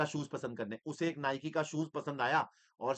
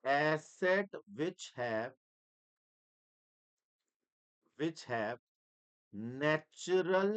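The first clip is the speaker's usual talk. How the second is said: very slow, word by word, as if writing on the board; slow dictation; much slower than usual. Shown as a demonstration. Teacher dictating the definition to the class very slowly. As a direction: spell it out at writing pace. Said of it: "dictating slowly as he writes".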